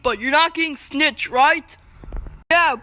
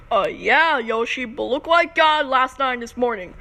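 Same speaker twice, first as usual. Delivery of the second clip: deep toy voice; 5 semitones lower than usual. Pretend. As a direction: play the big gruff toy, low. Boy voices a toy character.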